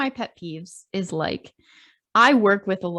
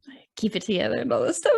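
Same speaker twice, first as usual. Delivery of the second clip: mocking whisper; 2 semitones higher, much faster than usual. Mocking his fake pain claim.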